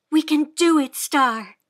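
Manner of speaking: rally the horse on; encouraging. A narrator's reading. Encouraging horse in dark woods.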